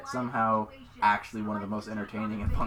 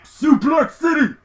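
slow shouted catchphrase; 13 semitones higher, 12 dB louder, slower than usual. Acted. Wrestling catchphrase shouted slowly.

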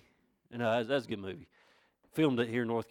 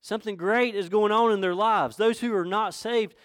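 raised, emphatic sermon delivery; fervent preaching; 7 semitones higher, 4 dB louder than usual. Real, not acted. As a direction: press each phrase home to the congregation. Preaches with force.

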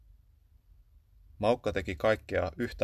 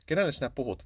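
higher, surprised question; astonished; 6 semitones higher, faster than usual. A narrator's reading. Väykkä asking the cat, amazed, who he's talking to. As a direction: ask in startled disbelief. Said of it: "Väykkä hämmästyi".

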